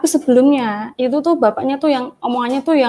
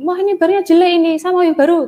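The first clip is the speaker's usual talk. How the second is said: higher, faster, curt grumble; a mild imitation of an angry customer; retold rude complaint; 5 semitones higher, 4 dB louder, faster than usual. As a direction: mimic the impatient customer snapping. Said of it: "Nggak bisa ngomong yang slow gitu loh".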